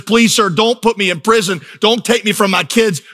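high-pitched begging, climbing to a wail at the end; mock tearful pleading. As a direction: plead like a debtor breaking down, lightly hammed-up. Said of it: "he just starts to weep".

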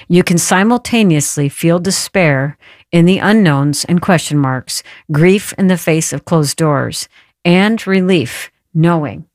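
measured, unhurried read-aloud of a quote; slow reading. Real, not acted. Host reading a guest's book for someone who needs it, slowly. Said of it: "I'm gonna read it slowly".

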